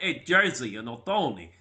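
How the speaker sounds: a hint of Sopranos-style New Jersey accent; Jersey mobster accent. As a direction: lightly put on a Goodfellas Jersey accent. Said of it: "it suddenly becomes like Goodfellas or".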